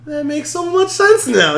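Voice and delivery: high and slow, as if it just clicked; high, drawn-out realization; drawn-out aha in a high voice; sudden understanding. Retold or imitated. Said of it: "He's like".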